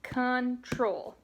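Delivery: control said as two beats, con-TROL, with a falling end; syllable demo. Shown as a demonstration. Teacher models control for the class. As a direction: clap out control in two parts. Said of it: "I would say".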